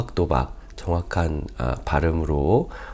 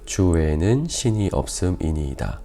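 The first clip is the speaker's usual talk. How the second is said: measured, solemn Bible reading, firm on each address to God; scripture reading; 5 dB louder than usual. Real, not acted. Pastor reads David's prayer to the congregation, formal scripture reading. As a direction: read the passage out to a congregation.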